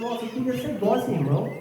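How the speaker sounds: a hint of a mild-mannered friend; meek friend impression. Preacher imitates his mild friend wishing to be sweet, meek. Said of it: "um amigo que ele é manso demais".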